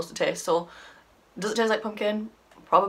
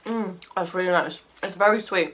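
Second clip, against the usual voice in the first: mouth full. Real, not acted. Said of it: "awful noises I make when I eat".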